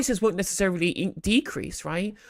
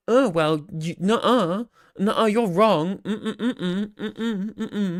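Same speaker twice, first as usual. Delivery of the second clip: whiny mock of a sulky know-it-all, humming no no; childish mocking; 2 semitones higher, much slower than usual. Streamer mocking a reply guy, childish whiny tone. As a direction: imitate a petulant kid refusing to listen. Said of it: "and he goes".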